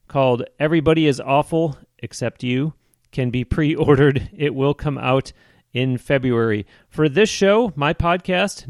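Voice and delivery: measured, projected announcer delivery; evenly paced host announcement; podcast promo read. Real, not acted. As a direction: read out the plugs clearly for listeners. Host reads the guest's plugs.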